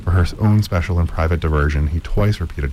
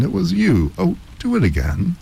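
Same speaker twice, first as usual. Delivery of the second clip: high, excited plea; delighted; 12 semitones higher than usual. Acted. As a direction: beg him to do it again. Miss Lowe delighted.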